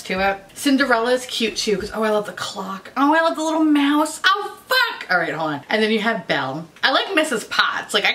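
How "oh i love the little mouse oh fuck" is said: excited squeal. Real, not acted. Delight at compact.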